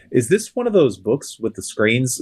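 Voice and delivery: slow, lightly put-on Uncle Tom voice; Uncle Tom impersonation. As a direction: redo it as a slow, deliberate caricature. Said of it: "That was an impersonation of an Uncle Tom".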